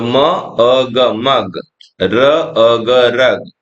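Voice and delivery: drawn-out separate sounds म अ ग; very slow phonics blending for children. Shown as a demonstration. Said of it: "तो ऐसे ही करना है". (बहुत धीमे अलग-अलग ध्वनियाँ)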